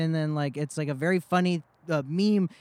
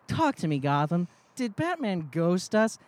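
Vesper Fairchild. Retold or imitated. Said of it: "Vesper Fairchild, who says".

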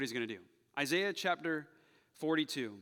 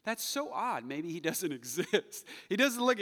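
patronizing mock; 5 semitones higher than usual. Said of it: "he is that kind of patronizing".

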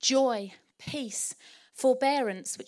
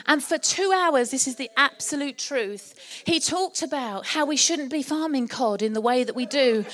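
mock rant; 3 semitones higher, 5 dB louder than usual. Indignant retelling of cod rant.

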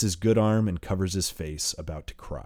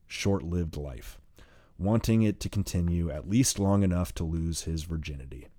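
ordinary delivery, nothing marked

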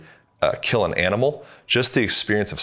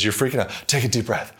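lightly mimicked, higher-pitched urging; imitated urgent advice; 4 semitones higher than usual. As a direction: quote a well-meaning bystander, pitched a bit up. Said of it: "When somebody says".

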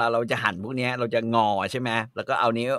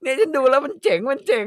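high, loud, eager voice; proud host; 13 semitones higher, 4 dB louder than usual. Retold or imitated. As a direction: show off the knife, chirpy and pleased. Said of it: "แล้วเธอก็บอก".

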